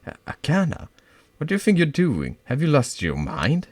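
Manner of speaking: high, loud panicked alarm. Acted. Girl facing a knife, panicking loudly. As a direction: stop her, scared and shrill.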